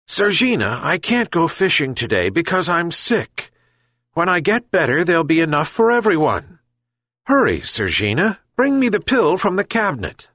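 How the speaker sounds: put-on high, earnest plea of an old man; sick old man pleading. Sick old fisherman begs his cat for the pill, pleading. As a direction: beg the cat for help, weak but urgent.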